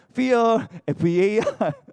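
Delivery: put-on, overdone, exaggerated intonation. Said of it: "저도 이렇게 어떤 그룹의 억양이 어, 저도 이렇게 좀 이렇게 팬이어 갖고 마음에 배어서".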